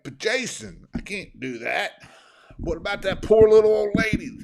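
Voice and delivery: high, loud, put-on whiny plea; hammed-up pleading for the old lady; mock whiny employee. Mocking his employee's worry about a poor old lady, whiny. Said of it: "He's like".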